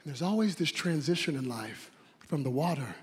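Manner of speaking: preacher falls quiet after the peak; hushed preaching. Acted. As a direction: drop it to a hush. Sudden drop after climax.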